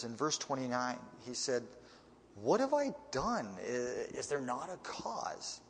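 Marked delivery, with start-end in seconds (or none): 2.3-5.6 indignant David. Retold or imitated. David protests to brother.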